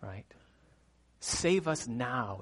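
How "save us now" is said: slow, weighty "Save us now"; emphatic. Shown as a demonstration. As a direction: draw out each word of "Save us now" firmly. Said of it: "It's emphatic".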